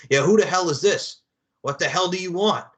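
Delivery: lightly hammed-up brusque phone greeting; mock rude receptionist. Receptionist answering under Stone Cold's orders, mock-rude. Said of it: "like when Stone Cold took over as C E O".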